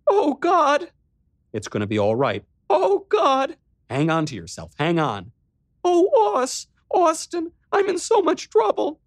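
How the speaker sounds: put-on frightened girl falling apart; panicked sister. Riley panicking to her brother on the phone.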